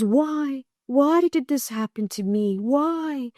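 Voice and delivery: a mild retold lament, half-acted; imitating a despairing patient. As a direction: echo a patient asking why in anguish. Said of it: "And talking like this".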